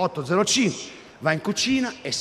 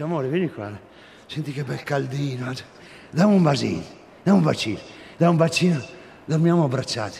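cooing; 4 semitones lower than usual. Retold or imitated. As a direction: coo it tenderly, lightly voiced. Wife voiced cooing in bed. (voce tenera e sdolcinata)

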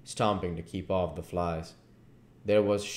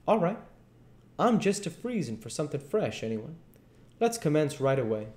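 put-on folksy old king; 8 semitones higher than usual. King voiced in the story.

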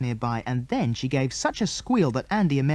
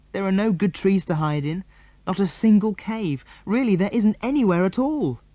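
put-on distressed girl; 7 semitones higher, 3 dB louder than usual. A narrator's reading. Mary pleading tearfully.

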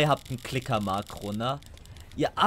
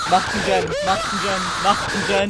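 urgent shouting; 2 semitones higher, 4 dB louder, faster than usual. Real, not acted. Urging teammates repeatedly.

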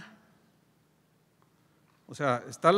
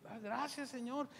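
quiet thanks; 7 semitones higher, 13 dB quieter than usual. Retold or imitated. Agradece quedo en el accidente.

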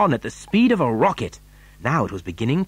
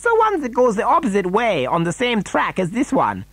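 higher-pitched character voice; explaining Wonka; 8 semitones higher than usual. A narrator's reading. Wonka to alarmed passengers, explaining high-pitched. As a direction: explain in a lifted, far-from-narrator voice.

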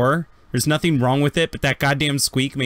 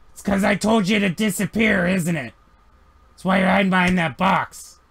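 higher, exasperated scolding of the droid; Grick grumbling; 6 semitones higher than usual. Acted. Grick scolding the droid hiding behind the box, exasperated.

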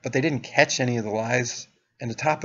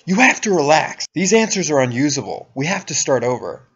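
loud, higher-pitched angry outburst, imitated; mad interrogator; 4 semitones higher, 7 dB louder than usual. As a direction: imitate a mad examiner losing patience. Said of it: "this guy gets mad at me".

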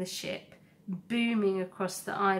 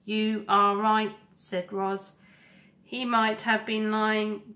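measured robot voice, a touch louder than the narration; calm, earnest robot making her case; robot Roz; 2 semitones higher, 5 dB louder than usual. Acted. Robot to the animal crowd, steady and resolved.

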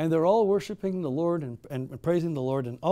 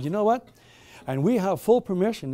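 higher, louder, menacing officer; a soldier threatening the believers, higher and louder; 5 semitones higher, 4 dB louder than usual. Acted. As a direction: lean in with a threat of authority.

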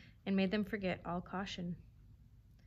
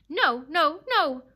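high, loud repeated cry; howled refusal; 8 semitones higher, 10 dB louder, slower than usual. A narrator's reading. Dog refusing the fox's plea, howling. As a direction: howl each word like a hound. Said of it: "the dog howled".

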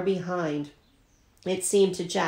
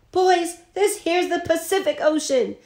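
high, rough frontiersman holler; excited announcement; 11 semitones higher than usual. Acted. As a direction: announce it like big news to all the boys. Mountain Jim announces to the passengers.

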